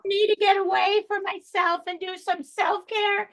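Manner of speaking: a hint of a put-upon pet; lightly voiced dog. Dog confiding in animal whisperer about owner, lightly voiced. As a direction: lightly voice a weary, complaining dog.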